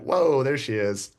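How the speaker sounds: surprised whoa. Retold or imitated. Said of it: "that reaction was genuine".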